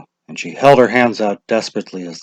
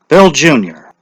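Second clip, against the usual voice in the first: lightly voiced official, raised and brisk; a hint of a village official calling out; lightly voiced lottery official; Mr. Summers' voice; 5 semitones higher, 7 dB louder than usual. A narrator's reading. Mr. Summers calls names.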